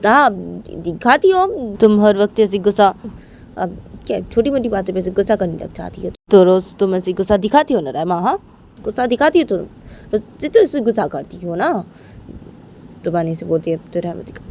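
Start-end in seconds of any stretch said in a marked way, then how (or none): 0.1-11.7 mocking retort. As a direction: rub it in that she's always angry. Bani accuses Rama back.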